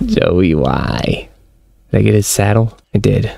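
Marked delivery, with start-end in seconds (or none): 0.1-1.3 low, drawn-out lament; mournful wail sinking low; hammed-up despair over a lost pet; mock grief. Mourning the dead game pet.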